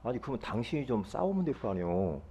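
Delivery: imitated inner grumble; silent retort. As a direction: grumble it under your voice, as if only thinking it. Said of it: "말은 하지만 속으로".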